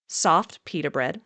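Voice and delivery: soft drawn out with weight; stress on soft. Shown as a demonstration. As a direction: hit the word Soft slow and firm. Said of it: "I emphasize the word soft here".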